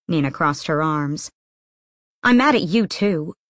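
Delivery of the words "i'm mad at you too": petulant. Acted. Nina sulking at Inej.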